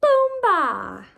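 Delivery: loud, high group cheer; a big happy shout to end the game; shouted together. A narrator's reading. All four friends playing together, a loud cheer. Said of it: "all together shouted".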